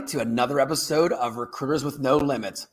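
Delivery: welcoming host introducing the episode; show host intro. Acted. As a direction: announce the show, stretching the tagline.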